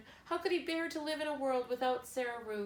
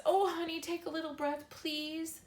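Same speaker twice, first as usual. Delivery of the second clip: high, pleading, on the edge of tears; a boy begging his dying sister to breathe, high and desperate; 7 semitones higher than usual. A narrator's reading. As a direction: beg her to breathe. Bryce begs dying sister.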